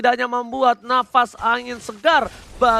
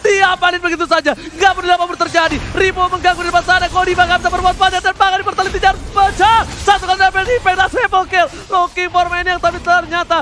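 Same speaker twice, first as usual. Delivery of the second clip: loud, higher shouted hype call; fighting game announcer; 8 semitones higher, 5 dB louder than usual. Real, not acted. Hype call of triple kill.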